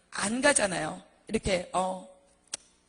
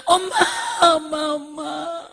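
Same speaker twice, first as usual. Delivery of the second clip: loud, high wail, easing off; children crying for mother; 5 semitones higher, 10 dB louder, slower than usual. Acted. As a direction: act out a child's tearful cry. Frightened children run crying to mother. (엄마를 부르며 우는 아이 흉내)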